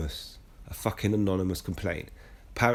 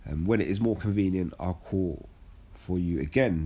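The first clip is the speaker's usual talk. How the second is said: scripture reading. Acted. Reads Bible passage aloud.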